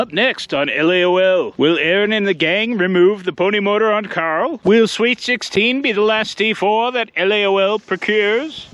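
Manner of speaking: put-on old-time announcer teaser; hammed-up narrator read.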